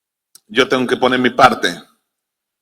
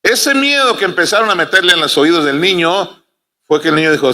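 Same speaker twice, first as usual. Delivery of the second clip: ordinary delivery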